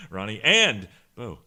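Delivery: and stressed in Ronnie and Bo. Shown as a demonstration. Joking about emphasis, stress on and. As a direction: punch the little word and. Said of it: "let's emphasize the and".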